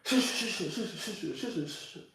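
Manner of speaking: high, hushed shushing of a soothing auntie; auntie hushing. Retold or imitated. Auntie soothing her crying nephew, high and hushed. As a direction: hush a crying little boy the way his auntie did. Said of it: "She used to always be like".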